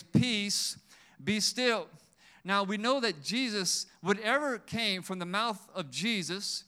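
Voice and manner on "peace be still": loud, higher-pitched preacher's command; emphatic proclamation in two punched phrases; bold declaration. Shown as a demonstration. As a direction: declare it forcefully to the storm. Preacher models declaring to the storm.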